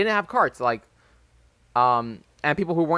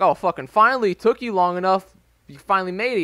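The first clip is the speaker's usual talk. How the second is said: lightly imitated jeering, a bit raised; mock-impatient teasing of a straggler; mocking friends; 3 semitones higher than usual. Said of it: "they're making fun of him".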